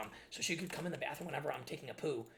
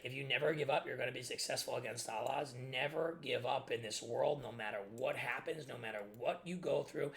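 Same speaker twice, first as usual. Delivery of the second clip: inner pep talk. Retold or imitated. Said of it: "the way I dealt with it was in my head".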